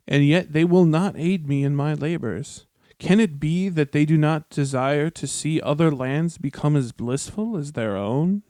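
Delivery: lightly voiced scheming Annatar; dramatic reading. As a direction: read it like a wounded schemer. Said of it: "now we have another excerpt".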